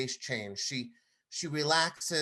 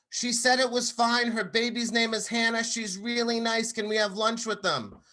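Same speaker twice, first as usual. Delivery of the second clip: put-on much higher and louder little girl begging; bright, pleading voice of a six-year-old; eager child; 10 semitones higher, 5 dB louder than usual. Daughter begs dad to stay for lunch, high eager child voice.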